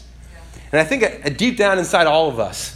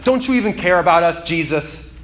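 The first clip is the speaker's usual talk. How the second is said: confident accusation; 3 semitones higher, 4 dB louder than usual. Retold or imitated. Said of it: "with such confidence".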